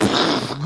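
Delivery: blown-lip crash noise; mock smash sound effect; imitated shattering glass. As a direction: make the sound of a plate smashing. Imitating glass hitting the floor.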